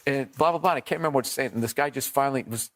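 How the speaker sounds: ordinary delivery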